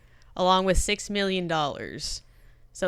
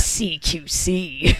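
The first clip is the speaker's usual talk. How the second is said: laughing; much slower than usual. Pretend. Snake joke, laughing.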